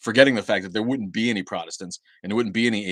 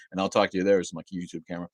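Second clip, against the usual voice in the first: ordinary talk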